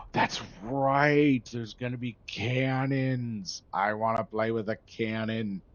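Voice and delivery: gleeful about the cannons; excited. Real, not acted.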